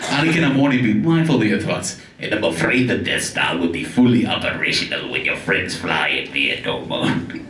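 mock-grave Star Wars mentor voice; Obi-Wan impression. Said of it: "Let's do some voices".

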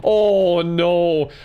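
loud, high panicked cry. Real, not acted. Gamer cornered by monsters, crying out in panic. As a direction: yelp it as the monster closes in.

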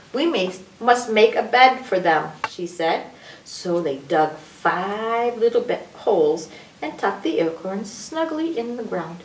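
animated storybook reading with swooping pitch; sing-song story voice, stretching key words; reading to children. A narrator's reading. Adult reads a picture book to children, animated storytelling.

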